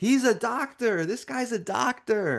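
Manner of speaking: very high, drawn-out, acted-out shout. Retelling his wife calling into his ear: imitating his wife yelling. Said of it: "she yells over in my ear".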